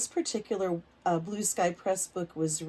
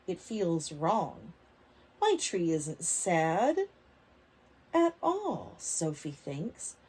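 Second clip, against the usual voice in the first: put-on reading to children; slower than usual. A narrator's reading. Teacher reading a picture book aloud to kids. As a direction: lively, clear storybook reading for little ones.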